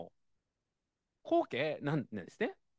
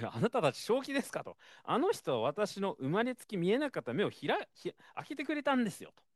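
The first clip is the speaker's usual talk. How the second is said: indignant; 5 semitones higher than usual. Retold or imitated. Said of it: "信仰告白したんですね".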